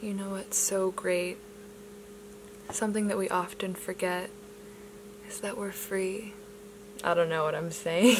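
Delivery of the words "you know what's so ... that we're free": soft ASMR voice. Pretend. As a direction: ease them gently into calm. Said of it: "I'm gonna try doing A S M R".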